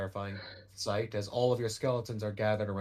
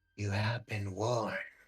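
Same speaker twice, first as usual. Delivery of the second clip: harsh, whispering voice. In a game scene, the creature answers a player in a harsh whisper. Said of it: "It speaks in a harsh, whispering voice".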